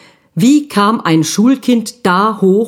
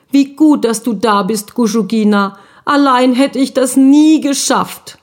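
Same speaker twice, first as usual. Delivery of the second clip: a lightly voiced, grateful little brother, slightly high; relieved little ghost boy; 5 semitones higher than usual. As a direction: breathe out the relief to your sister. Guschuk thanks sister after rescue. (erleichterter kleiner Geist, leicht hoch)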